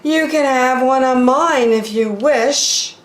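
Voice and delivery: a sorry polar bear pitched well up. Acted. Polar bear caught on the line apologizes, pitched high.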